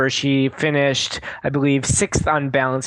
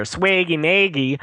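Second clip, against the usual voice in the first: Swaggy Maggie with Wisconsin "ay" vowels, Sway-gy May-gie; Wisconsin accent; 3 semitones higher than usual. Shown as a demonstration. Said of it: "trying not to say it with my Wisconsin accent".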